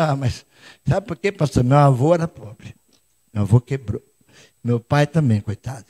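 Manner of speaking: low, subdued poor-me voice; meek, defeated muttered objection; doubter's excuses. Acted. Acts out a doubter's inner objection.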